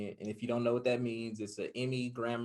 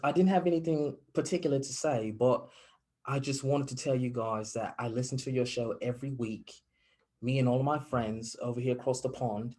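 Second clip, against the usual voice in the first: put-on light British caller accent, polite and upbeat; 2 semitones higher, 6 dB louder than usual. Retelling a London radio caller, in a light British accent. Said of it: "that was a really good accent".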